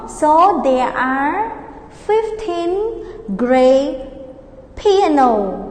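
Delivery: very slow, drawn-out sentence; slow model answer. Shown as a demonstration. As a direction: stretch each word for learners. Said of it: "teacher models the answer slowly".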